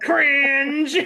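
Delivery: put-on blunt, loud, high fifteen-year-old voice. Imagining a fifteen-year-old's reaction: imitating Jefferson saying cringe. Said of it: "I can just hear fifteen-year-old Jefferson going".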